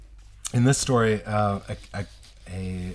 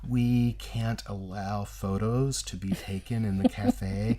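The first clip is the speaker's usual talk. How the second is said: smooth it over with exaggerated politeness; extra polite waiter; 3 semitones higher than usual. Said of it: "what someone would say to be extra, extra polite".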